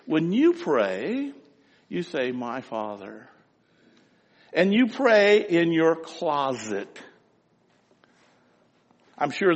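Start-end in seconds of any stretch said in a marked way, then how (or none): 0.0-7.0 slow, tender voice; gentle, slow instruction. Retold or imitated. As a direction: lead them kindly, unhurried. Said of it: "He said".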